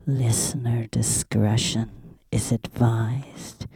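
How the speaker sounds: whispering. Acted. Whispered station legal notice.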